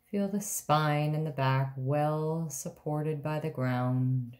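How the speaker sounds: guided meditation. Acted. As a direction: guide them into rest, with long pauses between phrases. Leads a guided relaxation meditation.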